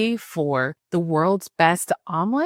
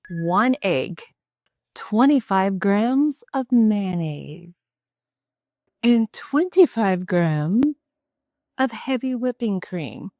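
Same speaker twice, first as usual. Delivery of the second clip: measured recipe voice. Real, not acted. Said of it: "I am not sure why I'm talking like this".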